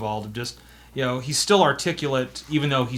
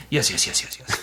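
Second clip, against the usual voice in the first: NPC voice; 4 semitones lower than usual. Pretend. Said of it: "you just come up with a voice".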